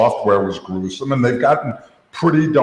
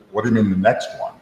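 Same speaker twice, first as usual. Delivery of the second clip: quick challenge; 3 dB quieter, much faster than usual. Retold or imitated. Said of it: "the only challenge I made to him".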